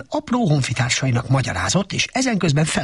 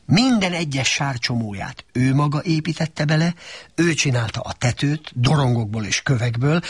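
usual speaking voice

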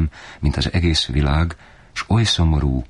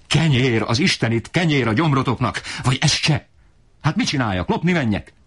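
much higher, climbing rant; desperate furious father; 7 semitones higher than usual. Acted. Father rants about no bread, high desperate fury. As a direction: pitch a voice cracking with despair. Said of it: "kiabált apám fékét veszve".

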